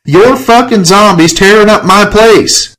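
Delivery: high, loud furious holler; screamed. Acted. Killian phoning Enrique about zombies, screaming. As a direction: scream it down the phone. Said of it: "Killian screamed in my ear".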